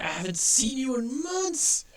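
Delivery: high, loud, jolly cartoon porcupine; a big happy toon greeting the bar; cheery porcupine toon. Quincy greets old friend.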